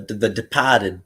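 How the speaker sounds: Boston accent, dropping the R. Real, not acted. Recalling a movie title for the others, in a Boston accent. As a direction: say it like a Bostonian, "Depahted". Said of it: "saying it in a Boston accent".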